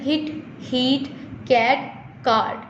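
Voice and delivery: short vowel in "hit" and "cat", long in "heat" and "card"; vowel demonstration. Shown as a demonstration. Teacher modelling vowels for students, contrasting "hit, heat, cat, card।". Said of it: "जैसे मैं pronounce कर रही हूँ".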